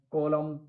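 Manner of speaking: कॉलम ending on M, no N after it; silent N. Shown as a demonstration. Teacher showing learners silent N, कॉलम ending on M. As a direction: close कॉलम on the M sound. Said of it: "कॉलम में एन silent है".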